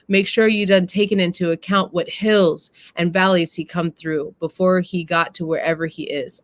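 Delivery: a hint of the wise mother, earnest and measured; mama's speech. Mama lecturing her daughter about love, gently earnest. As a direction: read it as the mother teaching her son's sister. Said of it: "And the mama says this".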